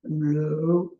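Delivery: held low note, firmly voiced; low pitch. Shown as a demonstration. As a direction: demonstrate a low voice on the word. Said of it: "it's pitch".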